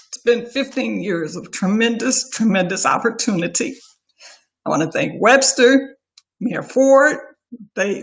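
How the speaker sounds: holding back tears while thanking friends; teary-eyed. Real, not acted. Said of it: "this is where I get teary-eyed here".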